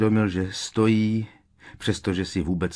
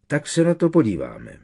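lightly mock concentrating dullard, pitched up; a hint of impersonating someone thinking terribly hard; Goyle; 7 semitones higher, 4 dB louder than usual. A narrator's reading. Ron clowning as a classmate for Harry, mock concentration. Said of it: "zdařile nasadil obličej pekelně se soustředícího Goyla".

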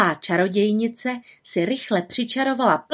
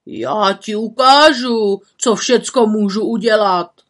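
loud, slow angry threat; scolding; 2 semitones higher, 6 dB louder than usual. Acted. Forester threatening the old woman, angry. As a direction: threaten her hotly. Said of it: "huboval lesník".

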